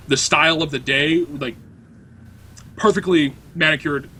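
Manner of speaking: ordinary talk, nothing marked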